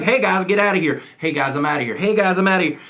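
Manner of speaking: the line looped in a fixed tune; rote sing-song. Shown as a demonstration. Coach mocking a stuck rote reading, sing-song. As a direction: repeat it like a tape. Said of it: "saying that thing like".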